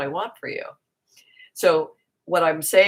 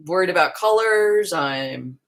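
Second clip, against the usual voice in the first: negative worried friend; 4 dB louder, slower than usual. Retold or imitated. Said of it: "went into this place of negativity".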